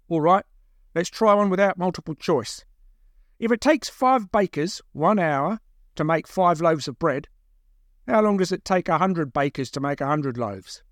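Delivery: captor posing a puzzle; quizmaster captor. Acted. Second captor testing his prisoner, officious. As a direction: set the sum out deliberately, like a quizmaster.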